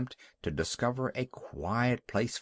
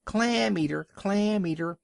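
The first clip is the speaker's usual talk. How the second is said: high, louder taunting shout; 7 semitones higher than usual. A narrator's reading. Young seal taunting the walrus, high shout. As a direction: jeer it as loud as you can. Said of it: "shouted as loud as he could".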